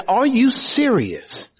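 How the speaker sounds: acted parental exasperation; incredulous parent. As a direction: question it like a baffled parent. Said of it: "You will look at them and say".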